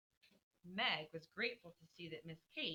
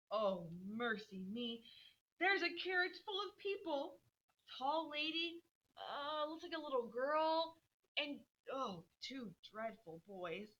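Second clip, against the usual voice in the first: lightly voiced excited girl, pitched up; eager Beth at window; 6 semitones higher than usual. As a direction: rattle off what she sees, thrilled. Reading Beth's report.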